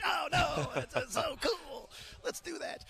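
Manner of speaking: hammed-up fake joy, ending in a whisper; sarcastic glee. Sarcastically playing the joyful team.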